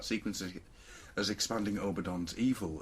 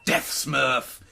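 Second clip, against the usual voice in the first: playful shout; 5 semitones higher, 8 dB louder than usual. Real, not acted. Playful exclamation.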